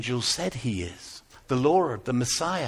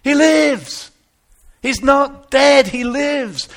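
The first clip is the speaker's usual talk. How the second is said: high, loud shout of news; excited yelling; 9 semitones higher, 9 dB louder, much slower than usual. Retold or imitated. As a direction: yell it across the hills. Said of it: "He's yelling".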